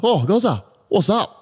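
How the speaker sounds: high excited greeting in a put-on voice; mock high-pitched hello; imitating the worker. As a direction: squeal the greeting like an eager barman. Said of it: "he's like".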